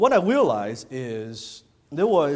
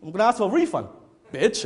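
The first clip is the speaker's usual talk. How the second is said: indignant retort, retold with some heat; pissed off; 7 semitones higher, 4 dB louder than usual. Attendee fuming to himself after being scolded, pissed off. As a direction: replay your offended comeback, half in earnest. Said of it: "I was pissed".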